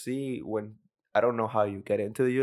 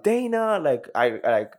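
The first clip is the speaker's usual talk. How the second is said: high-pitched hollered name, then drawn-out boast; hammed-up victory holler, higher than usual, slowing on the money; excited mock scream; 3 semitones higher, slower than usual. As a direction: mimic a fighter crowing about a bonus, stretching the figures. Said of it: "screams out, like".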